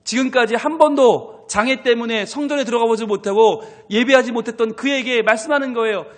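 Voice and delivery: usual speaking voice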